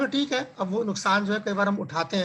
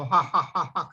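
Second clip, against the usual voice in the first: imitated madman's "ha ha ha"; spoken-out fake laugh, lightly acted; mock laughter; 3 semitones lower, slower than usual. Teacher mimics madman laughing on the street, mock laughter. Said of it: "जोर जोर से हंस रहा हो".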